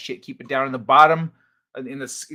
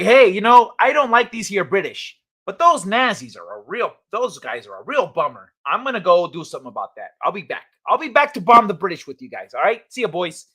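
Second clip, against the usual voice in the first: louder, lightly voiced Irishman's jaunty farewell; a weak stab at an Irish accent, quickly; failed Irish accent; 4 dB louder than usual. Streamer doing a weak Irish accent for chat. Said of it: "I know it's not an Irish accent".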